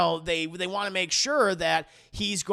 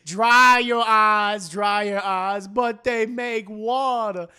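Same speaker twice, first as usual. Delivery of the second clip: mock soothing; 2 semitones higher, 7 dB louder, much slower than usual. Mock-tender comforting quote.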